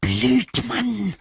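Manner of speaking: high, rasping creature snarl; Gollum hissing. A narrator's reading. Gollum insults doubting Sam, hissing. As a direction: spit it out as a hissed insult. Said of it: "fauchte Gollum".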